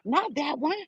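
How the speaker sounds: a touch of mock anger, drawn out; mock irritated girl. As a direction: imitate an annoyed young woman, hammed a little. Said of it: "She was like".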